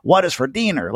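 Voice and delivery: hammed-up fake Spanish accent on dinner; bad Spanish accent. Comic doing his joke in a bad Spanish accent. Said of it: "with this bad Spanish accent".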